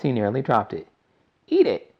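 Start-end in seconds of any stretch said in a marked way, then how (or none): 1.5-1.9 very high, loud excited command; shout. A narrator's reading. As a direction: cry it out with glee. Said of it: "shouted Mister Wonka".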